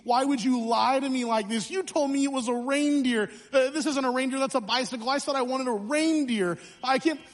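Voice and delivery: hammed-up hurt little boy; a boy accusing his dad over the bike, mock sobbing; mock crying child. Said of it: "I burst into tears".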